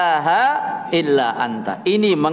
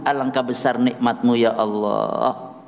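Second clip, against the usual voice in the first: usual speaking voice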